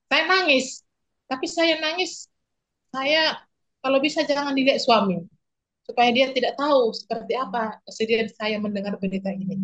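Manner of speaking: fighting back tears while telling it; tearful. Real, not acted.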